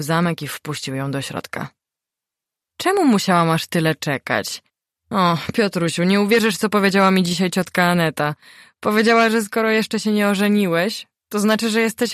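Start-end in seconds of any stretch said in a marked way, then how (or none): 2.8-12.1 gossiping mother. A narrator's reading. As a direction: pour out the aunt's gossip. Matka plotkuje synowi. (wysoki, przejęty głos matki)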